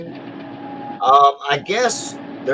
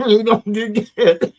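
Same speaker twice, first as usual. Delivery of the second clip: choking on drink; 7 semitones higher, slower than usual. Real, not acted. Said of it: "It went down the wrong pipe".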